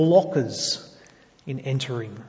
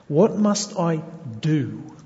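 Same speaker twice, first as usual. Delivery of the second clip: slow, with "do" drawn out; weighty, lengthened "do" at the end; stress on DO; slower than usual. Retold or imitated. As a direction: lean on "do" and stretch it. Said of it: "Notice the emphasis on that word".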